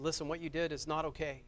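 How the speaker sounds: retold gentle reassurance to a child; reassuring. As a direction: reassure a frightened child, measured and sincere. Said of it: "I tried to reassure them".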